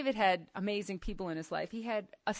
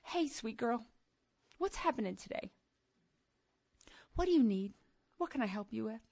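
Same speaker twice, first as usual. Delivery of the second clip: tender father voice; 3 dB quieter, faster than usual. Pretend. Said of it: "he's gonna stop everything he's doing to say".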